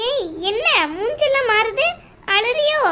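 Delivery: mock her for crying; aunt jeering at the tearful bride; taunting.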